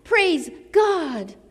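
mild mock shout of praise, held back; imitated joyful shout. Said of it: "that same voice to shout".

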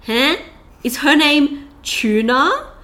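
imagined baffled listener sounding out a name; drawn-out, querying guesses at an odd name; puzzled questioning. Acted. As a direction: puzzle over it slowly, ending on a question. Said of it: "questions that popped into your head".

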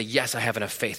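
confident readers. Retold or imitated. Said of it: "some readers that'll say".

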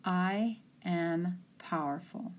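slow, spaced-out affirmation; affirmation with breath. Shown as a demonstration. Coach models an affirmation for the soccer player, slow and deliberate. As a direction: give each word its own breath. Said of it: "Say to yourself with breath".

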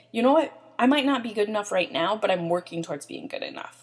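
firm talk-back to the inner critic, punchy start, easing off at the end; defiant comeback. Pretend. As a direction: stand up to the voice in your head. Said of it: "Come up with something to say".

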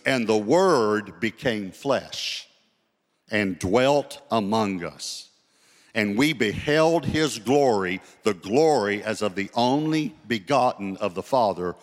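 slow, weighty verse with long-held words; emphatic scripture reading. Real, not acted. Preacher proving Jesus is God, slow emphatic scripture reading. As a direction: read scripture slowly, landing on each key word.

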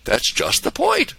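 put-on high, slow old angel; a hint of the old man, slowly. A narrator's reading. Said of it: "old Clarence said".

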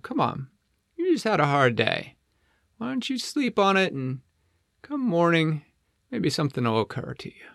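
Flippo. Acted. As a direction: reassure a downhearted friend as a penguin. Flippo consoles Flip Flop.

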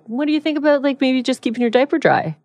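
high, sugary imitation of a mom asking gently; imitating the mom. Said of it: "She was like".

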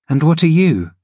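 put-on a girl urging her nurse uphill; eager young Cathy. Cathy questions Heathcliff.

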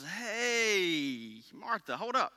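Jesus gently teasing Martha about her worry; pleading Jesus. Acted. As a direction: gently chide a worried friend. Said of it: "a proper rendering in the context is".

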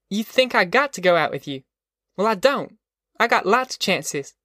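put-on high, defiant girl's voice; indignant. A narrator's reading. Girl scolds Al in quarrel.

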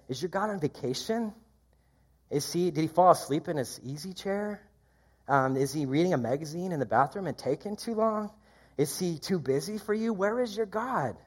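playful mock of a sleeping god; mocking taunt. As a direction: needle them with a sly jeer. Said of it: "Elijah has a little bit of fun".

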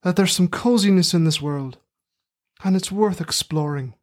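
put-on terrible working-class Midlands accent; rustic Midlands accent. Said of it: "in my terrible working-class rustic Midlands accent".

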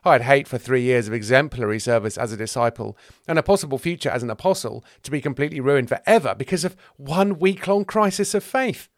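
rising fretful grievance; building indignation. Acted. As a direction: work up to an aggrieved finish. Thomas frets over his reputation.

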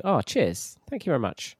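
falling, easy thank-you tone; casual thanks. Shown as a demonstration. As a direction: say it as an offhand thanks. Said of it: "But also cheers as in "Thank you".

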